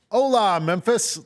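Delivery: imitating a white wrestler's Spanish greeting; no-accent Spanish greeting. Mimicking the fake luchador greeting the crowd, bland gringo Spanish. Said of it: "no accent".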